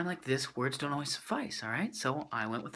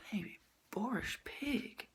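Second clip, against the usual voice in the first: incredulous echo; 9 semitones higher, 8 dB quieter than usual. Retold or imitated.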